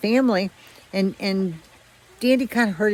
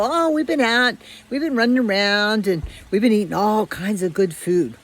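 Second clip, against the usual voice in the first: bragging dogs; 3 semitones higher, 4 dB louder than usual. Retold or imitated.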